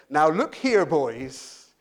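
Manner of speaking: imitating a stern referee telling players off; a touch of scolding, like to little kids; Nigel Owens. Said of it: "telling them off like they were little kids".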